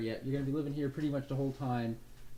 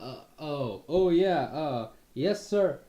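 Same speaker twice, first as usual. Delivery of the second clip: jolted higher and louder; dazed startled reply; 3 semitones higher, 8 dB louder, much slower than usual. Acted. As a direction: caught off guard, woozy. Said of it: "off his feet".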